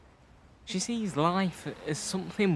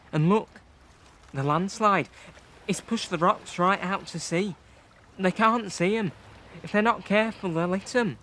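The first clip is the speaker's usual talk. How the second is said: higher, urgent voice; alarmed; 4 semitones higher, 4 dB louder than usual. Acted. Boy watching rowers head for rocks, alarmed. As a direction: pitch rising as the danger becomes clear. Spots danger to rowing twins.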